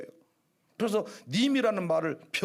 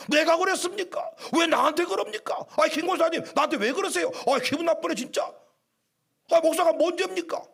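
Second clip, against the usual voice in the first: higher, whiny offended grumbling; peeved complaining; 6 semitones higher than usual. Retold or imitated. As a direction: sulk like a hurt pastor. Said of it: "이렇게 한 것이 아니고".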